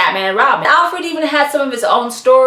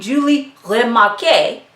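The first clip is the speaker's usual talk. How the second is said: French accent. Shown as a demonstration. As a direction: try Remarque with a light French accent. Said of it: "the French accent".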